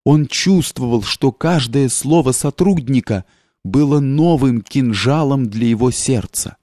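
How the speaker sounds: ordinary delivery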